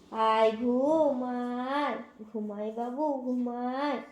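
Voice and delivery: very slow soothing lullaby tone; very slow soothing coo to the cat; lulling to sleep. Real, not acted. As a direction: ease the kitten to sleep slowly.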